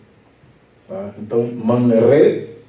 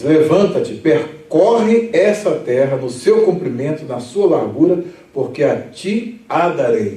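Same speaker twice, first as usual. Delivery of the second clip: scripture reading; 2 semitones higher, slower than usual. Acted.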